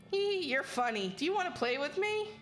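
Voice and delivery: high, sweet haunted doll voice; childlike and eerie, asking to play; too calm creepy doll. Acted. Doll voice speaks in game.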